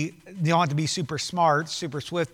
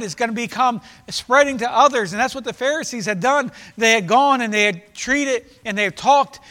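insistent sermon warning, slightly raised; forceful preaching; 6 semitones higher, 7 dB louder than usual. Real, not acted. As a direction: drive the warning home to the congregation. Preaches warning about spreading leaven.

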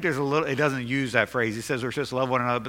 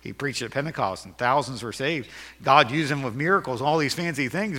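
mock doubting listener. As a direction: play the unimpressed churchgoer, half under the breath. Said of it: "You say".

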